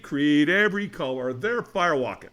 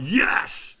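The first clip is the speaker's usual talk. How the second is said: higher, rougher mock cheer with extra push; stronger retold yes; 4 semitones higher, 4 dB louder than usual. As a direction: reenact a more forceful yes.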